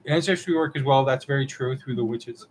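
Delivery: talking through hiccups; hiccuping. Real, not acted. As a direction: hiccups breaking the words. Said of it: "I'm, like, hiccuping now".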